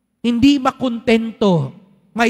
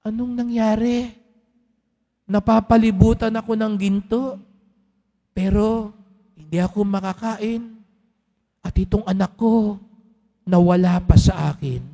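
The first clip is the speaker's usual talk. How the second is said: sad king. Acted. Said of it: "Nalungkot siya". (haring nagdadalamhati sa nawalang anak, mahina at malungkot)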